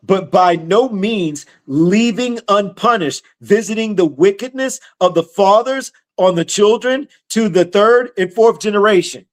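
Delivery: measured preacher reading from the Bible; scripture reading. Acted. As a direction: read the verse out deliberately, stretching key words. Reads scripture aloud.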